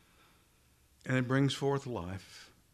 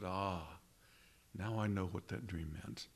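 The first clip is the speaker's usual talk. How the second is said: quiet realization; 4 semitones lower, 8 dB quieter than usual. Retold or imitated. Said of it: "he remembered his dreams and said".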